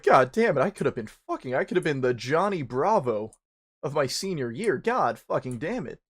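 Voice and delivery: loud groaning self-curse; mock frustrated curse. Narrator cursing his lost chance, mock frustration, loud. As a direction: swear like the moment was stolen from you. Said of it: "I was like".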